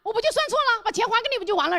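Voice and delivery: high, brazen brush-off; acted arrogance. Cheating boss brushing off the complaint, arrogant. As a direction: play the cocky boss, pitch jumping up. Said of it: "气焰更嚣张".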